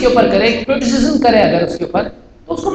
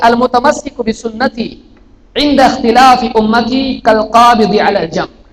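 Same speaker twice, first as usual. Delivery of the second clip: 1 slow hadith recitation; slower than usual. Acted. Quoting hadith in Arabic.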